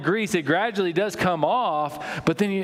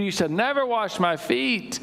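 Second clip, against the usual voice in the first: higher, insistent refusal with stress on never; Peter refusing; 7 semitones higher than usual. Acted. Peter refusing Jesus washing his feet, high and insistent. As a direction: firmly turn the master away. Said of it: "said Peter".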